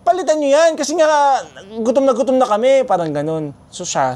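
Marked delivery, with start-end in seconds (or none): 0.1-2.9 put-on high, louder hungry kid yelling; retold yell. Child yelling at the vendor to replace the noodles. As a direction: yell it like a starving kid demanding a refund. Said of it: "basta sumigaw ako".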